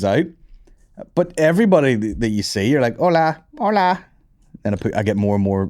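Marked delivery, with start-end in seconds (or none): 3.0-4.0 slow, higher put-on Mexican Hola; hammed-up Mexican greeting; mock Mexican accent. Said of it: "Mexican with the accent".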